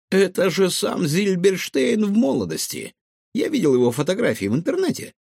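high, quick little squeak; small creature's high-pitched chatter. Acted. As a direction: squeak it out eagerly. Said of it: "пискнул Гаврош".

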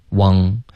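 "want" said as "汪", with ng; back nasal error. Shown as a demonstration. Teacher copying the student's "want", back nasal. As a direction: imitate "汪" without the tongue tip touching. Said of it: "好像没有顶舌尖".

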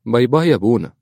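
put-on high child's goodbye; little girl. Daughter bids the priest goodbye, child voice.

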